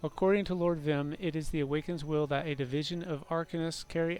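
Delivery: measured story narration; narrating in-game lore aloud; lore book reading. Acted. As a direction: read it out like a formal chronicle.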